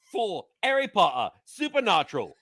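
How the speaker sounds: put-on light British accent on a sponsor read. Producer reads the sponsor spot in a British accent. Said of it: "I like that you went with the British voice".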